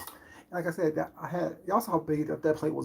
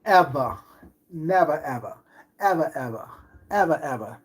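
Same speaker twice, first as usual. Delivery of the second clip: emphatic never ever; 5 dB louder than usual. Acted. Emphatic refusal chant.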